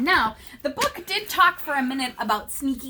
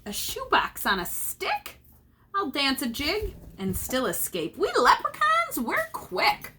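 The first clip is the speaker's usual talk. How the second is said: bragging leprechaun. Acted. Leprechaun brags.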